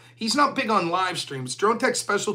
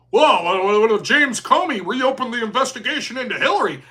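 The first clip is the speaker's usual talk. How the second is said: mimicking Destiny; 3 dB louder than usual. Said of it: "remember when he wanted to talk about".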